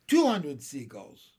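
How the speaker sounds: loud tally at normal pitch; firm, falling announcement; shouted count. A narrator's reading. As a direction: call out the score. Calling out the rising tally.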